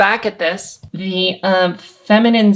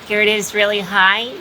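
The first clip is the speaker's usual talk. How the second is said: high larynx voice. Shown as a demonstration. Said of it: "You can hear my voice going really high".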